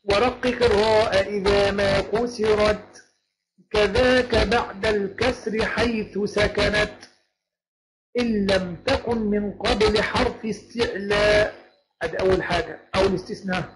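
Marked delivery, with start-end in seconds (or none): 0.0-11.6 slow chanted verses; measured poem chant; verse recitation. Shown as a demonstration. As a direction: recite the lines slowly, each word drawn out. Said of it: "بيقول إيه بقى".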